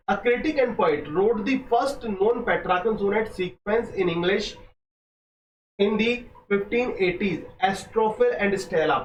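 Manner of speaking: very slow, careful textbook reading; slow dictation reading. Acted. Teacher dictating exam notes slowly to students. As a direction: lay each phrase down for students to copy.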